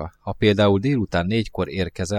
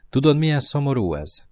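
ordinary delivery, nothing marked

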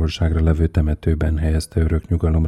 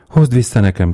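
high, loud narrated demand; crying out; 6 semitones higher, 5 dB louder than usual. A narrator's reading. Mother demands her son back, crying out. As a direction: call it out urgently, pitch raised. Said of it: "kiáltott az anya".

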